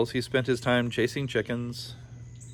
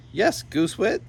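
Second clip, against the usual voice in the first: tiny brother voice; 8 semitones higher than usual. A narrator's reading. Shrunken Yorick snapping at his brother, high and squeaky. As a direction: snap back in a tiny high voice.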